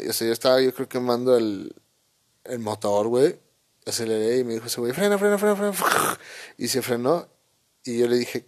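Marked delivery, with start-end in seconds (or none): 4.9-5.7 high, urgent mock yell of frena; retold yelling. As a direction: imitate a friend yelling frena, frena. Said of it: "ese vato me gritaba". (grito imitado y agudo de frena)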